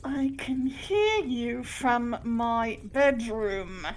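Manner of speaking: slow words pushed through clenched teeth; a hint of a tightly restrained Leonard; through gritted teeth. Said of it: "He is talking through clenched teeth".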